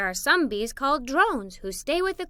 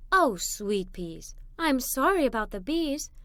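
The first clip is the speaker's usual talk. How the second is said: comforting mother. Acted. Mother soothing stung children.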